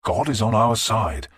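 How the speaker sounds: slow, gentle reassurance; calm the raving monk; a king soothing his subject; kindly voice. Acted. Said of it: "Alfred said in a kindly voice".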